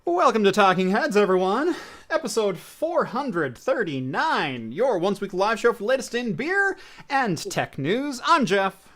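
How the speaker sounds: booming vintage radio host intro. Real, not acted. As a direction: announce it like a 1940s radio show. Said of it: "I went all old-timey radio announcer".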